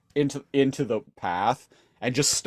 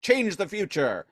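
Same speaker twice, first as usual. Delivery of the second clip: hammed-up villain realization; 8 semitones higher than usual. Galvatron panicking then scheming, high pitched. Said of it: "And he's like".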